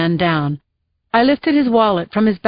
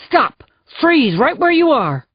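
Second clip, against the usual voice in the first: loud, higher police command; yelled warning; 6 semitones higher, 3 dB louder than usual. Acted. Jacoby yelling at the charging man, loud. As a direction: bark the order at him. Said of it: "Jacoby yelled".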